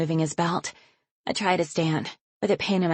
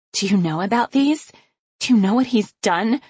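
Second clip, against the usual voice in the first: rising, louder demand; accusing; 5 semitones higher, 5 dB louder than usual. Acted. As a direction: hurl the questions at her. Confronting mother with photos.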